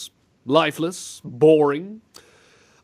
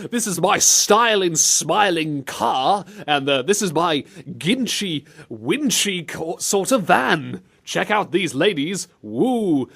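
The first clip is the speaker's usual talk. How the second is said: slow, pitched-up caricature of British talk; mock British; 4 semitones higher, slower than usual. Host parodying what Britons say, hammed-up slow British accent. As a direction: drag out a silly British accent. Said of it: "stuff we in Britain like to say".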